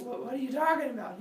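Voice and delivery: high, quick sputter; confused Cyclops. Acted. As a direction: blurt it high and fast, bewildered.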